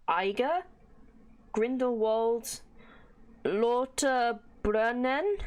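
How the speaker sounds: "Grindelwald" and "Lauterbrunnen" sounded out slowly, unsurely; butchered place names. Real, not acted. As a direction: haltingly stretch out "Lauterbrunnen" as an unfamiliar name. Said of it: "I'm butchering all of these".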